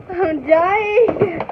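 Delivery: wheezing with laughter; laughing hard. Real, not acted. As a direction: laugh till you can't breathe.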